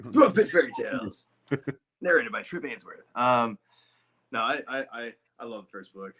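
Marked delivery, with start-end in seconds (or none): 0.1-3.0 high, loud title-card announcement; mock audiobook announcer. Co-host jokingly reads the audiobook credits to its author, mock announcer.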